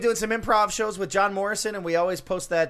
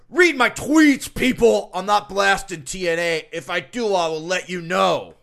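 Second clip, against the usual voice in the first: strongman; 8 dB louder, slower than usual. Retold or imitated. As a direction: growl it like a musclebound wrestler. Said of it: "I'll read the next one he tweeted like Steiner".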